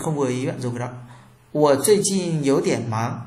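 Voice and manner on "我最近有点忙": slow, syllable-by-syllable 我最近有点忙 for learners to copy; careful model reading. Shown as a demonstration. Teacher reading a model sentence slowly to students. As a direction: read 我最近有点忙 slowly and clearly, every tone distinct. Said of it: "chữ y các bạn cắt đi nhá, không đọc".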